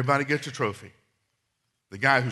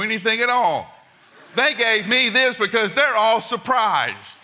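laughing son; 5 semitones higher, 6 dB louder than usual. Retold or imitated. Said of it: "my son says".

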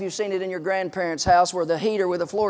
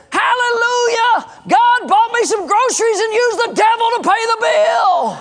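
high, loud hallelujah shout; triumphant shout; 12 semitones higher, 5 dB louder than usual. Acted. Widow answers the atheist with the punchline, triumphant shout. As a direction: belt it out in jubilant praise.

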